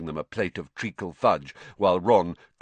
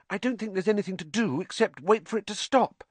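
put-on high-pitched girl's worry; anxious; 12 semitones higher than usual. A narrator's reading. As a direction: fret in a high, sustained voice. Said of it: "said Hermione anxiously".

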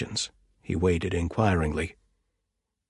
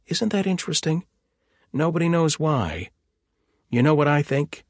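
enthusiastic; 7 semitones higher than usual. Acted. Axel enthuses about cattle.

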